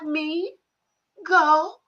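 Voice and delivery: high, laughing mock of a rattled man; imitating a flustered old man between giggles; flustered father-in-law. Son mimics stepdad answering angry mom, high flustered laughing mock.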